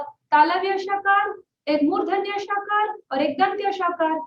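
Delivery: a pupil proving Bengali has three sh sounds; girl listing three sh sounds. Retold or imitated. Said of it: "तो बोली".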